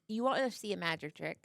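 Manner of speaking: lightly put-on British magician; a touch of mock-British stage patter; British accent. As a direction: slip into a slight British accent. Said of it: "why is it British".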